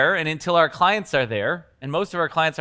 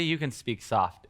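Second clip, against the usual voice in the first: speaking softly; 5 semitones lower, 8 dB quieter than usual. Shown as a demonstration. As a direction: drop to a soft, quieter voice. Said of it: "if they're speaking softly".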